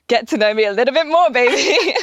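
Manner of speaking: laughing, flirty come-on; flirty tease. Retold or imitated. Teasing the guy over text, laughing flirt. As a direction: tease him with a giggle.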